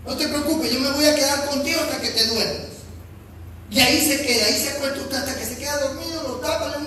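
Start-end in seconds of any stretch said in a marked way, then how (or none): 0.1-2.8 soothing parent. Retold or imitated. Parent staying with child.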